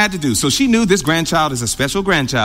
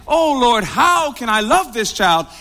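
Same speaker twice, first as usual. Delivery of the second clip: high, pleading cry to God, lightly acted; tearful plea; 4 semitones higher, slower than usual. Grandmother praying in her room, mildly acted tearful plea. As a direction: plead upward in mock anguish. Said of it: "She cries. She says".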